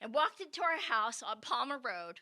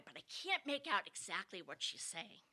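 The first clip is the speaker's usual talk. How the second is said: ordinary talk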